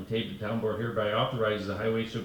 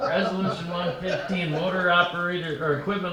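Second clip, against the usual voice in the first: laughing while reading; 7 semitones higher, 4 dB louder than usual. Real, not acted.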